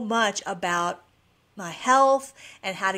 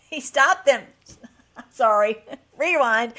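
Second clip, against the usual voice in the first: giggly self-correction, laughing through it; real, embarrassed laughter between words; laughing at own slip; 2 semitones higher, 6 dB louder than usual. Real, not acted. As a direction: laugh while apologizing for a flub.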